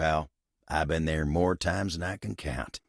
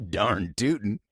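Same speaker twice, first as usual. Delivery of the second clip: laughing agreement. Acted.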